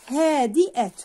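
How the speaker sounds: "هادئة" with a loud, stretched haa; long vowel demo. Shown as a demonstration. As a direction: lengthen the first vowel of "هادئة". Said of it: "هذه كلها".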